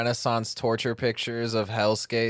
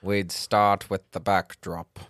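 soothing spooky serial killer voice; spooky Vincent Price voice. Pretend. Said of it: "the spooky Vincent Price-esque voice".

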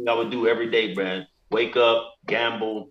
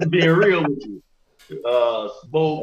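laughing; 5 semitones higher, 3 dB louder, slower than usual. Real, not acted. Laughing admission.

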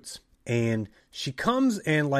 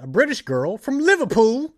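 excited; 11 semitones higher, 7 dB louder than usual. Retold or imitated. Trainer voiced, excited news.

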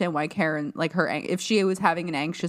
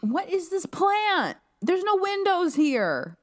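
much higher, incredulous squeak; baffled high voice; 10 semitones higher than usual. Acted. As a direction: squeak it out in disbelief. Mocking the plant in the lab.

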